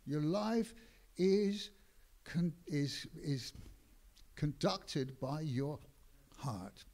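measured sermon delivery; preacher stressing each phrase to the congregation; preaching. Acted. Preacher to congregation, earnest sermon cadence.

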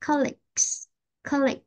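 "colleagues" with g caught in the throat before s; swallowed G. Shown as a demonstration. Teacher explaining the G to a student, "colleagues" with swallowed g. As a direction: swallow the g in "colleagues", then release the s. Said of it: "cái chữ G mình có thể nuốt".

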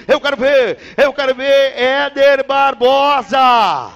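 shout. Real, not acted. Announcer hyping the rider.

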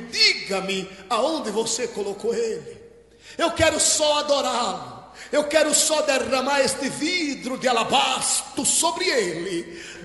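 slow, drawn-out acted plea; mildly tearful, theatrical pleading. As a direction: stretch the key words as if imploring. Mary pleads with the supposed gardener.

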